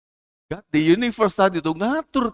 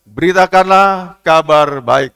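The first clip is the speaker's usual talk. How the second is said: slow, louder proclaimed together; unison declaration; 7 dB louder, slower than usual. Shown as a demonstration. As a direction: lead the church in saying it. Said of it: "Satu, dua, tiga, kita katakan".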